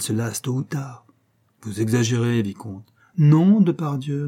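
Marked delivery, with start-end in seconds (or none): 3.2-4.3 loud and slow oath; passionate cry. A narrator's reading. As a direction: swear it with heat. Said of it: "avec emportement". (serment emporté, fort et lent)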